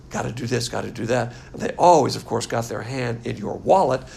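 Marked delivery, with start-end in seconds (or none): 0.1-1.3 dismissive singsong of rules; mocking church rules. Preacher mocking churches' demands, dismissive singsong. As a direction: parrot the church's demands with scorn. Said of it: "churches want to put up barriers".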